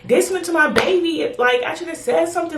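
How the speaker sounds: high-pitched worried self-reproach, acted out; mildly upset, imitating past self; retold sad regret. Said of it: "now I'm sad because I'm like".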